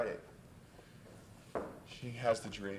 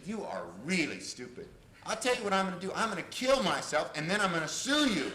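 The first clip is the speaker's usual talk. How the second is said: mock-furious threat, building in pitch; retold fury; 4 semitones higher, 3 dB louder than usual. Furious client threatening her therapist, moderately heated. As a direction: start contained, then build to an acted threat. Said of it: "She was furious with me".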